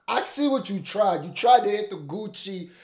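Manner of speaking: high, loud accusation; emphatic, playful busting of someone; loud mock call-out. Real, not acted. Mock calling out the outfit.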